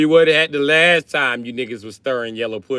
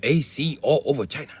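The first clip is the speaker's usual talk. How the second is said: mock excitement; 6 semitones higher, 4 dB louder than usual. Excited about plane AC.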